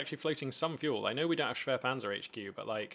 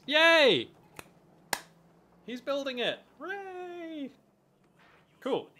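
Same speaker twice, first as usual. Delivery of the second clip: hammed-up Russian cheer, much higher and louder; terrible Russian accent; 12 semitones higher, 5 dB louder, much slower than usual. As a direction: celebrate like a cartoon Russian soldier. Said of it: "I do a terrible Russian accent".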